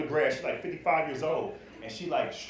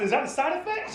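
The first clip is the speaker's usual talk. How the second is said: alarmed question; 9 semitones higher than usual. Retold or imitated.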